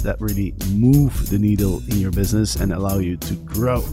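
upbeat sponsor read. Acted. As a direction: sell it like a radio ad.

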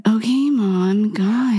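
slow, drawn-out teasing okay mom; eye-rolling. Real, not acted. Teasing the friend lecturing about trims, eye-rolling. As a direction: roll your eyes at a nagging friend. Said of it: "Don't roll your eyes".

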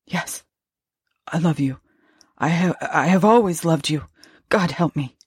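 halting words, a touch of fear; frightened stammer. Acted. Husband forces out love to the ghost, mildly stammering. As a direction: stammer it out haltingly, starting faint. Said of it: "I did manage to stammer".

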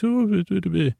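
squinchy face. Retold or imitated. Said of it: "make the squinchy face when he does, he says".

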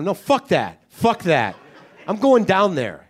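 mildly hammed-up indignant refusal; retold anger. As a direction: refuse with comic outrage. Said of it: "at the level of anger".

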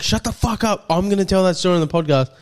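high start, hurried mock threat; imitated angry snap. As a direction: act out a mate's angry threat. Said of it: "Maz is getting fully angry".

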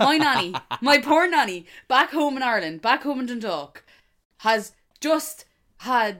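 building outrage about poor nanny; loud exasperation. Real, not acted. Mock outrage over scammed nanny.

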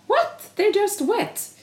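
high, incredulous What; mimicking the man's scoffing disbelief; a man scoffing that the dogs are only wet; mock indignant man. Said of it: "Han bara".

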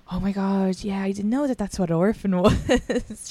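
a touch embarrassed, laughing; sheepish laughing admission. Retold or imitated. Friend realizing she misunderstood orphan, sheepish. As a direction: realize your mistake with a laugh. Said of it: "she was like".

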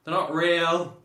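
high, loud outburst; emphatic protest. Real, not acted. Co-host loudly protesting that minions aren't real.

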